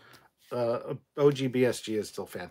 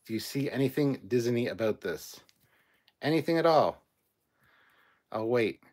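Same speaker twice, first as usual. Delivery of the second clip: sarcastic challenge; 6 dB louder than usual. Real, not acted.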